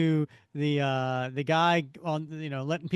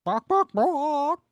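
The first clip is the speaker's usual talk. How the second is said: higher, louder, drawn-out goofy barks; slow loud barking; 10 semitones higher, 8 dB louder, much slower than usual. Acted. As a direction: bark slowly and loudly like a silly dog. Comic chicken barking again.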